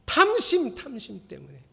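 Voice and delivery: sudden high, loud accusation; mock accusation. Pastor mocking his own belly with a loud accusation. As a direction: fling the word out like a charge.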